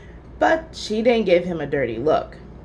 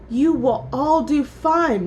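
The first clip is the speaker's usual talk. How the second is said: proudly; 5 semitones higher, 3 dB louder, slower than usual. A narrator's reading. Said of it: "Missus Bird said proudly".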